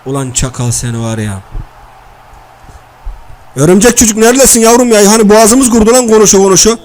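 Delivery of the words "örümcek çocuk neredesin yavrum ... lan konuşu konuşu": calling out. Real, not acted. Calls out for a drink.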